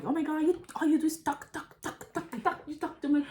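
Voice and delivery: high, whiny mimic of the sister; mock her nagging in a high put-on voice; high nagging imitation of the sister. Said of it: "be like".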